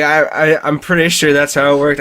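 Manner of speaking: stumbling over the words; stuttering. Real, not acted. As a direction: stammer through the start. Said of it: "I'm stuttering so much".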